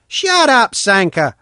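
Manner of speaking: high loud shout; boy shouts at Sanka to stop. A narrator's reading. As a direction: yell him down. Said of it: "I shouted".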